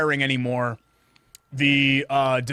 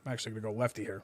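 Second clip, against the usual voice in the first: talking through a mouthful; words round a bite of pizza; mouth full; 5 semitones lower, 13 dB quieter, much faster than usual. Real, not acted. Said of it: "don't eat with your mouth full".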